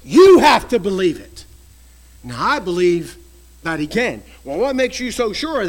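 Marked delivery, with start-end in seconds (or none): 0.0-1.5 loud forceful demand; preaching shout. Real, not acted. Preacher to congregation, a loud insistent shout. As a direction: drive it into every listener.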